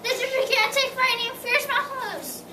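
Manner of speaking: two elephants in a mild fright; frightened elephants. Acted. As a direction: squeal it out like scared elephants. Elephants panicking at threat.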